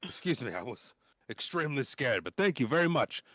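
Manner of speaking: put-on nervous teen gushing thanks; timid boy scout. GM plays the young scout.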